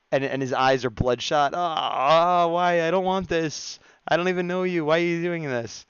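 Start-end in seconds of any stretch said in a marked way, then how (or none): 1.5-5.8 high, loud, whiny pleading voice; pained turtle. Acted. Turtle begging the stranger to stop, high whiny plea. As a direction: plead high and loud like a tortured cartoon animal.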